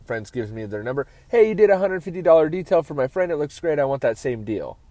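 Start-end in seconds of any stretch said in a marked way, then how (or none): 1.3-4.8 eager customer demanding the deal. Retold or imitated. Customer asking for friend's deal.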